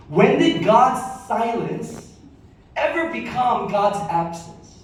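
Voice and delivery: "When did God's silence" slow and lifted, "ever" leaned on. Shown as a demonstration. Pastor repeating key line for congregation taking notes, slow and lifted. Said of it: "write this down".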